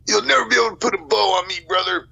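high, fast wrestler bravado; Hulk Hogan voice. Retold or imitated. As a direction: throw it back like Hogan.

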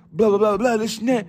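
high, sing-song dismissive babble; mock blah blah. Telling the dude off in a mocking sing-song. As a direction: brush him off in a mocking voice. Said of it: "And I'm like".

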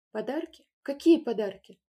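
baffled mother; surprised. A narrator's reading. Mother to Valentinka, surprised question.

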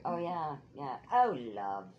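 mock British accent. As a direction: put on a British accent for the endearment. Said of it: "people in England do that".

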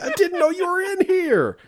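high, loud, bewildered protest; retold shocked excuse; flustered dad. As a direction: plead innocence while still startled. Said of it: "It's like".

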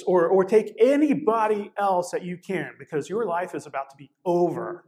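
southern drawl, drawn out, pressing harder as the warning grows. Retold or imitated. Keith warning a new student to drop the course, southern drawl. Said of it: "in his southern drawl".

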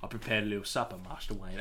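lightly voiced English butler; understated butler impression; Alfred. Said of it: "when Alfred comes, he says".

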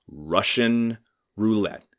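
slow, weighty repeat; stern echo. Retold or imitated. Comedian repeats the old doctor's warning to the audience, slow and heavy. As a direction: let it sink in slowly. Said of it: "he goes".

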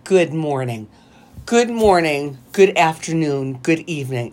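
mock formal greetings, falling away; dull, formal roll-call of greetings; boring and formal. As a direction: recite stiff greetings, unenthused. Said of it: "It's so boring and formal".

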